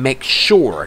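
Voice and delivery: "sure" ending on a clear R; R sound demonstration. Shown as a demonstration. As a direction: slowly model the R in "make sure". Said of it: "เสียง R".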